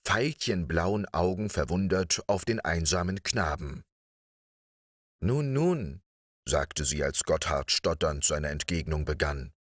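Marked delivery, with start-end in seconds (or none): 5.2-6.0 gently soothing, in a higher voice; a light, higher-pitched reassurance. A narrator's reading. Lady soothes a stammering boy.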